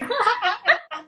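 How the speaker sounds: high giggle breaking out; quick high laugh, fond and amused; high burst of laughter. Real, not acted. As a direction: laugh over your own impression. Laughing at the imitation.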